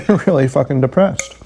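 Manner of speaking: hushed whispered aside. Retold or imitated. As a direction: breathe it without voice. Retold remark about depression.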